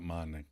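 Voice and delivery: MONICA sounded out low and very soft; dumbly sounding out. Retold or imitated. Recapping Phoebe's turn, MONICA sounded out dumbly, low. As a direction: imitate dim, halting sounding-out of MONICA. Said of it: "with that dumb feeling before sounding out".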